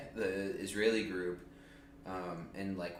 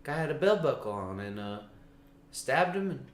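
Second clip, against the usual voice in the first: higher pitched Ben Carson; 4 semitones higher, 4 dB louder than usual. Retold or imitated. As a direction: keep it high and dozy. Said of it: "That's better".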